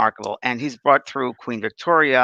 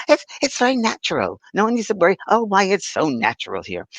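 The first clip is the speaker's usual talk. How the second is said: high-pitched imitation of a Scottish woman; lilting Scottish accent, imitated; Scottish lady; 6 semitones higher than usual. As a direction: reassure like a Scottish lady spirit. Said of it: "she was a Scottish woman".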